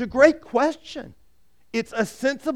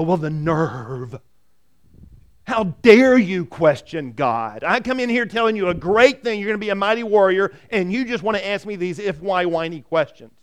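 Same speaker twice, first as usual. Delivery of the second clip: hammed-up indignation at the nerve; indignant angel; 5 dB louder than usual. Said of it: "The angel doesn't go".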